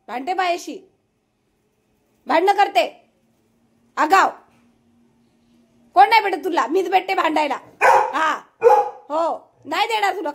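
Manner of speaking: high, mostly loud complaint; exasperated bickering. Real, not acted. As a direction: quarrel back at a barking pet. Bickering with the barking dog. (वैतागून भांडत)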